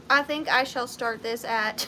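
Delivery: stiff, even robotic delivery. Real, not acted. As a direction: speak like a machine reading bids. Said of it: "why am I talking like a robot".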